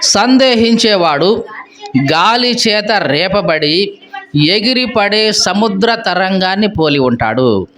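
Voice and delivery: slow, measured reading of the verse; scripture reading. Acted. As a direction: read each phrase slowly and solemnly.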